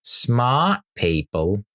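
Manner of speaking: slow drawn-out smart people with a rising end, attempting Australian; a clumsy Aussie accent, slow and rising; failed Aussie accent. Shown as a demonstration. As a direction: stretch out smart people, a botched Australian try. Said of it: "Nope, that's not it".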